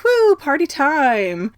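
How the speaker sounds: high, drawn-out party whoop; party cheer. Retold or imitated. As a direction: whoop it slowly like a reveller. Voicing the partying Gryffindors.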